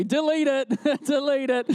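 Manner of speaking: playful command broken by a laugh; laughing plea. Real, not acted. Preacher to Ash who took a photo, laughing plea. Joking about an unwanted photo.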